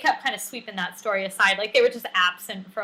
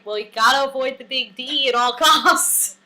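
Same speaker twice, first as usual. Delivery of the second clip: laughing quote; 2 semitones higher, 5 dB louder than usual. Retold or imitated. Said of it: "Rolling Rock is like".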